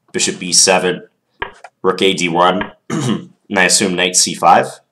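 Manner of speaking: stuffed-up nose from a cold; blocked nose. Real, not acted. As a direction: talk through a blocked nose. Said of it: "I'm pretty stuffed up still".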